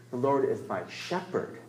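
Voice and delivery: "shepherd" set apart as the key word; stress on "shepherd". Shown as a demonstration. Preacher turning to what shepherding means, stress on "shepherd". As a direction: land on "shepherd" at the end. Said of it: "you emphasize different words".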